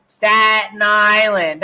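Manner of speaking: put-on slow, drawn-out New York accent, stretching the vowels; thick Staten Island accent. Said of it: "we're talking about the Brooklyn accent".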